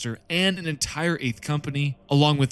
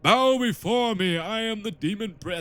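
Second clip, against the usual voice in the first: demon prince voice; 4 semitones higher than usual. Retold or imitated. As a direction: boom out a pompous villain intro. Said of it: "he's like".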